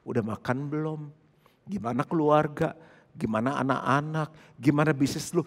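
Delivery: a friend who talks only in canned lines, in a low, soft, robotic voice. Pretend. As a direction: greet like a machine reading a script. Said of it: "kita punya temen ngobrol cuma gini".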